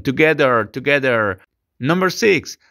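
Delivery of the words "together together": "Together" said tuh-GEH-der, no h; together without h. Shown as a demonstration. Teacher reminding students how to say together. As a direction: repeat "Together" cleanly, h silent. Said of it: "no te olvides esa pronunciación".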